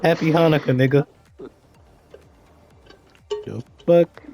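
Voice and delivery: exasperated rant. Real, not acted. Ranting about the Christmas tree.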